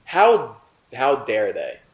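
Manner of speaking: outraged burst; real indignation; indignant. Real, not acted. Indignant outburst.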